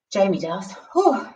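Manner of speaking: puffing after star jumps; winded, blowing out air; out of breath. Real, not acted. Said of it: "I'm very unfit".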